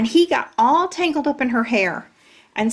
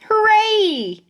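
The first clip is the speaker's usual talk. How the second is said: high, loud cheer; shouted hooray; 12 semitones higher, 5 dB louder than usual. Acted. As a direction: cheer the victory. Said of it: "we shouted".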